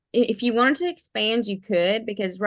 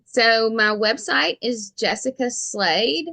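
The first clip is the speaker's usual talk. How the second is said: slow, careful thick Southern accent; deep south accent; slower than usual. Real, not acted. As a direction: spell it out in a thick Southern drawl. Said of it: "my thick Southern accent".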